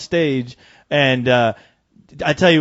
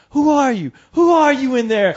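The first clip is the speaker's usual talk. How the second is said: put-on higher, curious girls asking; lightly voiced partygoer girl, higher; mimicking curious girls; 8 semitones higher than usual. Girls at the party asking the masked guy, higher voiced. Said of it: "girls coming up to me laughing".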